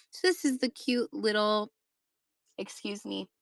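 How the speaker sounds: pausing through heartburn discomfort; talking with heartburn, breaking off. Real, not acted. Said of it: "Oh, the heartburn's hitting now".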